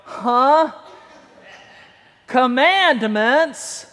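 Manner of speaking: slow, drawn-out questioning Commandments; mock puzzled. Preacher mimicking a puzzled congregation, slow and doubtful. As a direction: sound baffled by the word. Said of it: "most of us are going".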